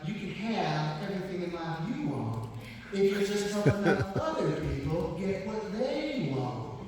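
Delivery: lightly mimicked Southern accent; Zig Ziglar. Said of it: "try and mimic his accent".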